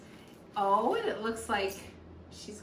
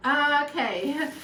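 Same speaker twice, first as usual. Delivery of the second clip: fighting tears; 4 semitones higher, 5 dB louder, slower than usual. Real, not acted. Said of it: "she's got me crying".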